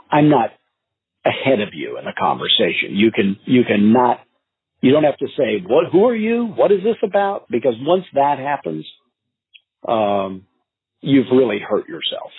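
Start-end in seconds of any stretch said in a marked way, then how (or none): 5.6-7.5 confused prospect. Retold or imitated.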